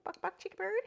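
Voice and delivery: high squeaky voice chirped at the parrot; high chirpy parrot-speak; squeaky bird talk. Real, not acted. Talking to pet bird, bird-talk.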